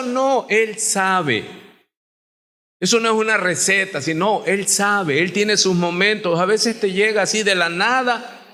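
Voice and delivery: ordinary talk, nothing marked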